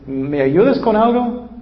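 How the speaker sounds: a hint of a wife pleading for help; wife asking. Preacher voicing a wife's request, lightly.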